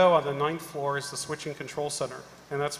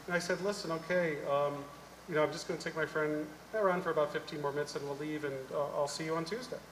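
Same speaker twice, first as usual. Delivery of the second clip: calm conversation; 6 dB quieter than usual. Retold or imitated. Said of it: "having a calm conversation with her".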